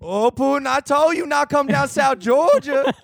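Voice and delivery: high, drawn-out Southern scolding; mock Southern accent. Southerner scolding Putin for invading Georgia, mock Southern drawl. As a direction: stretch it out like an exasperated Southerner. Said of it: "Joe was talking about Putin invading Georgia".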